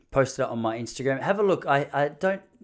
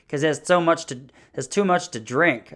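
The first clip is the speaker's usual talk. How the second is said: lightly voiced American woman, a touch raised; North Dakota wife; 3 semitones higher, 4 dB louder than usual. Wife explaining why no walk, lightly imitated. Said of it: "She's like".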